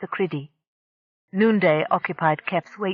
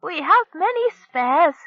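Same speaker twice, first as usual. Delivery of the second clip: higher, slow call across the room; 11 semitones higher, 4 dB louder, slower than usual. A narrator's reading. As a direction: call out to him, drawn out. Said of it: "Gaptooth called to him".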